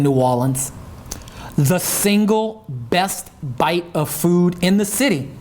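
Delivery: mild imitation of a New Orleans yat sports radio host; Corey Johnson yat accent. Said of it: "in his great yat ass accent".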